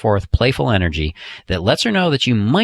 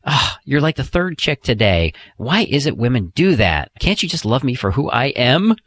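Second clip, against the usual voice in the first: playfully outraged, a bit higher; mock-vain tease; 4 semitones higher than usual. Shown as a demonstration. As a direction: pretend she's checking you out, hammed up. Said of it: "you can look at her and go".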